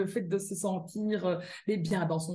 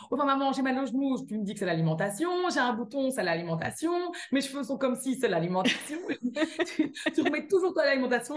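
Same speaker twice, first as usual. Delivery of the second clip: whiny daughter; 5 semitones higher, faster than usual. Retold or imitated. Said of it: "Puis alors, elle me dit".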